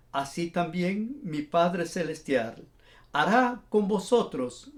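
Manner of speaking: measured reading with deliberate pauses; scripture reading. A narrator's reading. Preacher reads Jesus' parable of forgiveness to listeners, measured scripture reading. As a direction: read the parable solemnly, phrase by phrase.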